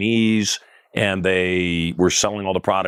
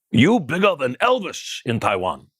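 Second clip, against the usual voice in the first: higher, slow mock Taiwanese accent in broken English; imitating Taiwanese accent; 5 semitones higher than usual. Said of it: "That's just kind of the accent that he did".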